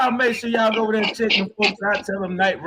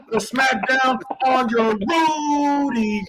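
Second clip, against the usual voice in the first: wrestling promo shout; 3 semitones higher, much slower than usual. Acted. Wrestling-style trash talk.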